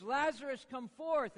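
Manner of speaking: commanding yell. Retold or imitated. Jesus calling Lazarus out after his death, imitated commanding yell. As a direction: call out as if summoning someone. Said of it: "he yells and he says".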